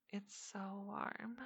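slow hushed whisper. Acted. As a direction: draw it out in a whisper.

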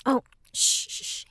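soft shushing; hushing. Acted. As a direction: hush them urgently under the breath. Hushing a noisy roommate.

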